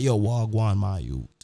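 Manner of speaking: casual Jamaican greeting, dropping low at the end; Jamaican patois. Retold or imitated. Cousins greeting the promoter, in Jamaican patois.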